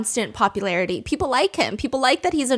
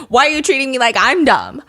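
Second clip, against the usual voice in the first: angry; 6 dB louder than usual. Retold or imitated. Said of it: "He gets extra pissed off".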